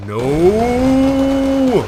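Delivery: loud, high drawn-out No; mock shout. Gamer yells No at enemies reaching his base, loud and high. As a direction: wail it as the enemy rolls in.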